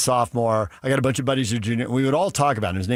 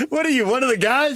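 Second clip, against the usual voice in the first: jock voice; 12 semitones higher than usual. Retold or imitated. Imitating high school guys talking, high bro voice. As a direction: play the bro calling out to a buddy. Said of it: "This is the way we're talking".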